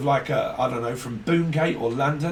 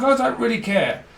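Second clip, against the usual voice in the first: mock sneer; 9 semitones higher, 5 dB louder than usual. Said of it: "It's like".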